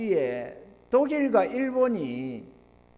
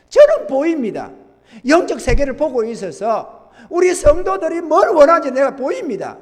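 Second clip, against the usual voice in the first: loud, insistent pulpit delivery; forceful preaching; 7 semitones higher, 8 dB louder than usual. Real, not acted. Preacher rebukes rebellion in offering and worship, forceful preaching. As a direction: press the charge home, point by point.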